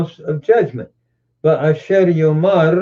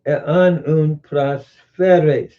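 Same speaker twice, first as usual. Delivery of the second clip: slow for emphasis; much slower than usual. Shown as a demonstration. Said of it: "Notice Jesus says".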